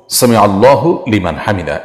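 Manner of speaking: "আল্লাহু" with its final hu fully sounded; correct pronunciation. Shown as a demonstration. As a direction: say "সামি আল্লাহু লিমান হামিদা" with the hu kept. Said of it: "এটি হলো শব্দের সঠিক উচ্চারণ". ("আল্লাহু"-র হু উচ্চারণ করে সঠিকভাবে)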